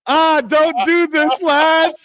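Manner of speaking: slow whiny plea to the lads; teasing a knocked-out fighter from the UK; mocking British fighter. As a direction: put on a pleading Brit losing the fight. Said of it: "he's like".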